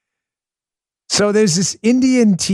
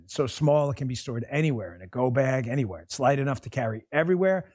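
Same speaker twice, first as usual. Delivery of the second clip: softer, even radio sponsor read; low-key scripted product pitch; 5 semitones lower, 10 dB quieter, faster than usual. Real, not acted. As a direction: read the sponsor copy smoothly and quietly. Reads a sponsor ad.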